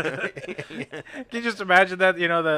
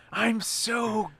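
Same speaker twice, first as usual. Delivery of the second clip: hammed-up character; 2 semitones higher, slower than usual. Hamming up the gay character.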